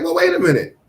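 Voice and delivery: high-pitched mock indignation; retold high-pitched protest; indignant protest. Retold argument with police in store.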